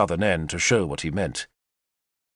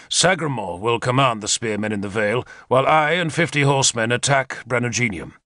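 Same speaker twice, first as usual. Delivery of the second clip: lightly raised, keen war-leader voice; Arthur, eager commander; 3 semitones higher than usual. Acted. Arthur briefs his captains on the attack, eager commander voice. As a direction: lay out the plan like a confident general.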